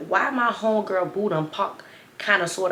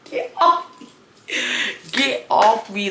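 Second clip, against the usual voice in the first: high, loud exasperated snap; mock exasperated yell; annoyed get off; 4 semitones higher, 3 dB louder, slower than usual. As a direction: shove him off with your voice. Pushing off clingy man.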